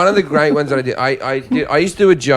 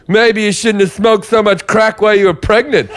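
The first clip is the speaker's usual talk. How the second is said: Tom's deadpan jab; 7 semitones higher than usual. Retold or imitated. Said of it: "And then Tom said".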